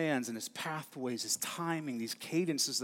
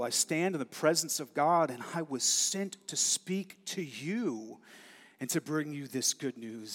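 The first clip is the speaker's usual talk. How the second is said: proclaiming angel. Acted. Preacher voicing Gabriel announcing to Zechariah, bold and declaring. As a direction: announce it boldly. First reading of Gabriel's words.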